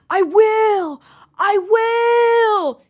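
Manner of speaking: high, forced mock yell; imitating a held-in yell, pushed and high; fake yelling. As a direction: pretend to yell with a forced, strained voice. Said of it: "notice the fake yelling".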